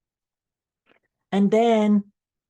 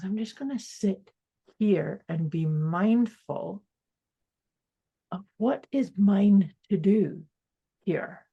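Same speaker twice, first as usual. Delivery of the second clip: calm mindful self-talk; slower than usual. Shown as a demonstration.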